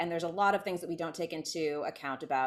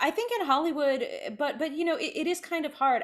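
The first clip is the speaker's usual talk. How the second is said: laughing it off, pitched up; 9 semitones higher, 3 dB louder than usual. Real, not acted. Laughing while telling the host Hollywood is hard. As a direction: giggle through the admission.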